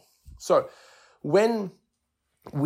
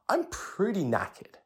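breathless exhausted; 8 semitones higher, 4 dB quieter, slower than usual. Pretend. Describing exhaustion after set.

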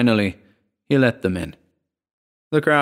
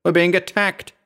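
bellowing; 10 semitones higher, 3 dB louder than usual. Acted. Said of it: "he bellowed".

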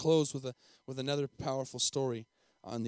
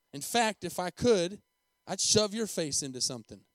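a louder, bolder threat; defiant threat; 2 semitones higher, 4 dB louder than usual. Acted. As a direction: push it out as a brazen threat. Boy threatens the principal.

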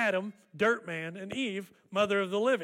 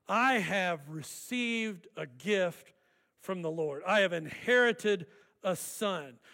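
grateful declaration. Acted. New mother crediting the Lord for a son, gently grateful. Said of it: "There is gratefulness in her voice".

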